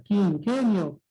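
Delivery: quinquenio slowly, in separated syllables; split into syllables. Shown as a demonstration. Teacher asks what quinquenio contains, slowly splitting it. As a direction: sound out quinquenio piece by piece. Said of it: "cómo sería la separación silábica".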